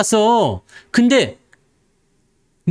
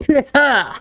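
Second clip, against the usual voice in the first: mock verdict; 6 semitones higher, slower than usual. Fortune-teller gives buy verdict.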